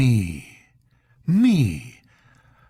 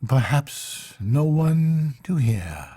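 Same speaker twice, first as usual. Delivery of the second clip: mourning; 6 semitones higher than usual. Acted. Intended confessing her lonely mourning, high breaking voice.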